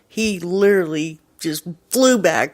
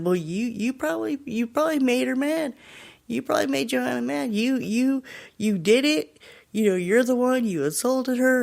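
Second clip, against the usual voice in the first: higher-pitched imitation of blaming friends; lightly mock-accuse, pitched up; acted accusation; 7 semitones higher than usual.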